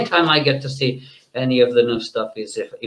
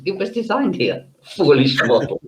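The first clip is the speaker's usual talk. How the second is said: dark lord; 3 semitones higher than usual. Acted. Demon guest mocks the hosts.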